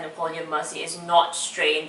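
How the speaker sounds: quietly quoted line, emphasis landing on "not"; stress on NOT. Shown as a demonstration. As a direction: lean on the word "not". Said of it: "The emphasis should be placed on not".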